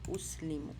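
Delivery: اس لیمو as "us-lee-mu"; oo in اس, long ee in لیمو; اس لیمو carefully sounded, falling at the end; "oo-ee" sounds. Shown as a demonstration. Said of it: "او ای، او ای sound ہمارے پاس آئی ہے".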